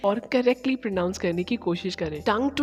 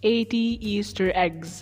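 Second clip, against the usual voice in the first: slow careful reading. Shown as a demonstration. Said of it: "पहला जो tongue twister है".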